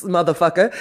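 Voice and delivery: ordinary talk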